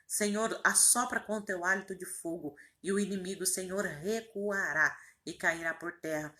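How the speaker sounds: earnest, insistent praying voice, pushing key words; fervent prayer. Real, not acted. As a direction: pray aloud with conviction, phrase after phrase. Leads a fervent spoken prayer. (oração fervorosa em voz alta)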